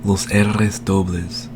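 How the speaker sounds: slow Spanish los R's dobles; Spanish slowly. Shown as a demonstration. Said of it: "meaning double R".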